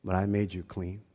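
hushed and tender, speaking to a stubborn son; the Father's voice. Retold or imitated. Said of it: "And the Father was like".

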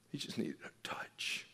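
whispered point. Real, not acted. Pastor telling the church what the grieving man needed, whispered. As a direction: drop to a whisper to land it. Sermon point after grief story.

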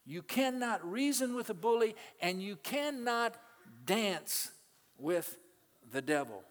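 preacher shouting the lesson at the congregation; shouted maxim. Shown as a demonstration. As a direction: hammer the saying home, word by word. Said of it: "preacher repeats the maxim louder".

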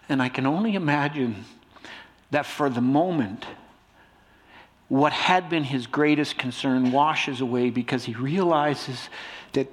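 usual speaking voice

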